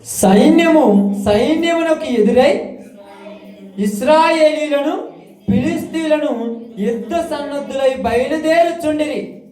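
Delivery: slow, lifted chant of the verses; scripture reading. Acted. Preacher reading scripture to the congregation, slow and chanted. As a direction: read the verses like a sermon recitation.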